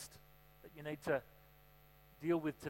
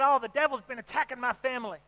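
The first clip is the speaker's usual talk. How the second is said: retold church lady; 6 semitones higher, 6 dB louder than usual. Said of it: "this lady got up and she said".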